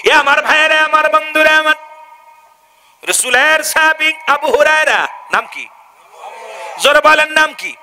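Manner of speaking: fiery waz preaching. Acted. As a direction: preach to the crowd in full force. (উচ্চস্বরে ওয়াজের সুর)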